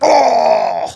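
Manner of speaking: high, annoyed groaning "oh," very high. Guessing a weight, then realizing the wrong choice, groaning.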